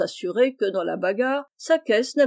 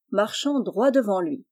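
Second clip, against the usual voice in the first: ordinary delivery, nothing marked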